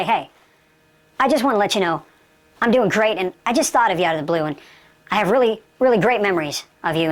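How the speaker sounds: low, easygoing heartfelt message; sincere reaching-out. Shown as a demonstration. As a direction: thank an estranged friend, low and unforced. Models a reconciling phone call.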